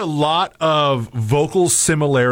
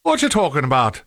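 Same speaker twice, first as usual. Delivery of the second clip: imitating a lightly Irish-sounding accent; attempted Irish accent. Co-host quoting the white Jamaican dad, attempted Irish accent. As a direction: mimic the man with a hint of Irish. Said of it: "now I'm doing Irish".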